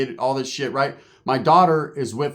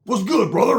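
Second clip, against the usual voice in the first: a light put-on white-guy voice, upbeat; mock-cool white dude greeting; little white voice; 6 semitones higher than usual. To Roach, showing off, light white-guy voice. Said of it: "I even got my little white voice on".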